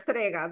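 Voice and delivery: Strega said the Italian way; Italian word pronounced properly. Shown as a demonstration. Guest showing host how it's said, Strega pronounced properly. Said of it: "You say it so much better".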